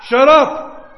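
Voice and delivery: acted scolding. Crowd telling the blind man off, acted scolding. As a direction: shut him up in an acted outburst.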